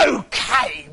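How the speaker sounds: mock the bald girl with glee; the witch taunts Rapunzel; gloating angry witch. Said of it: "wild with anger".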